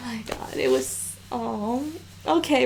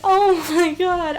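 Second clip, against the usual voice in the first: tearful; 3 semitones higher, 3 dB louder, slower than usual. Real, not acted. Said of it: "I'm gonna cry".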